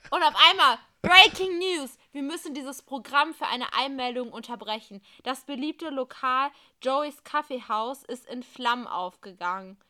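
urgent breaking news read; news anchor. Acted. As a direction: report the fire urgently. Breaking news report in story. (dringender Nachrichtensprecher)

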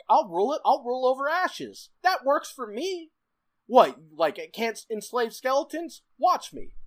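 high, loud gloating villain; gleeful villain voice. Retold or imitated. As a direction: gloat like a tyrant ruling ashes. Voicing villain Buldone's attitude.

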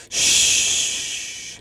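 breathless unvoiced hush; whispered shush. A rapper hushing Nicolas Cage in the story, whispered. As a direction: shush him softly, all breath. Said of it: "he whispered".

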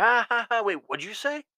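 high, loud "Ha, ha, ha", then a sudden stop; mock laugh turning into a puzzled "wait, what'd you say"; fake laugh then double take. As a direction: laugh along, then catch the insult. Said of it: "you're like".

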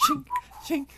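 high squawking turkey sound; turkey noises. Pretend. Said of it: "your turkey talk is louder".

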